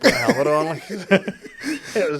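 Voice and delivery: high, laughing through words. Real, not acted. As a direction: crack up mid-sentence. Laughing about helmet.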